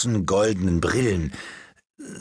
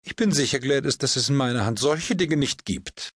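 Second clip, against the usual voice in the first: put-on a higher, earnest old duchess; the Duchess insisting firmly to Gladys; 5 semitones higher than usual. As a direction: protest seriously, as the duchess. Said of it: "sagte die Herzogin ernsthaft".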